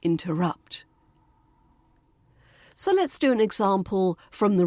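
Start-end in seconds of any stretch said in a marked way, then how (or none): 0.0-0.8 "Interrupt" with a quick, soft schwa in ter. Shown as a demonstration. Teacher models "Interrupt" for learners, light middle schwa. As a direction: keep the middle of "Interrupt" light, stress rupt. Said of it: "We hear that fast schwa sound again".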